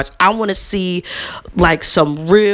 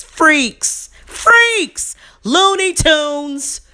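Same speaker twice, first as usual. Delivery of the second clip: indignant yelling over bad parents; outraged shout; 7 semitones higher, much slower than usual. Real, not acted. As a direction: spit it out in disgust. Ranting about scandalous parents.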